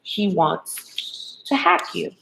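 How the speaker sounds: slow, soft, otherworldly voice; a hushed, drawn-out warning from nowhere; eerie inner voice. Retold or imitated. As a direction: speak like a strange voice in the head. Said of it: "eerie for a second".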